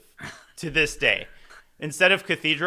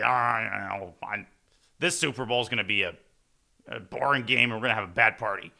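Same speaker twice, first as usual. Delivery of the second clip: lightly voiced grumbling uncle, lower and quicker; grumpy uncle; 3 semitones lower than usual. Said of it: "the grumpy uncle".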